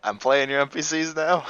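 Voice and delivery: high, loud amused protest; laughing protest. Real, not acted. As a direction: squeal it, amused and indignant.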